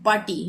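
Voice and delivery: "पार्टी" with long aa and no r; silent r. Shown as a demonstration. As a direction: say "पार्टी" as "paa-tee". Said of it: "हम पार्टी थोड़ी बोलते हैं". ("पार्टी" में र silent)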